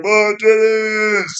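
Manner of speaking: high, slow, drawn-out cry of delight; hammed-up slow high exclamation; mock eager. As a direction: stretch it out like a kid who found treasure. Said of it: "I'm like".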